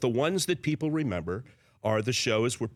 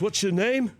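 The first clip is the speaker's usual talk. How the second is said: higher, louder star's voice; eager question; 8 semitones higher, 4 dB louder than usual. Retold or imitated. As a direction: ask brightly like a fan. A singer asking.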